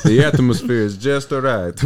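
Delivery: slow, hammed-up Italian pizza-man voice; lightly mocking Italian; mock Italian accent. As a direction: lay on a playful fake Italian accent. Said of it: "Were you trying to do Italian right there?".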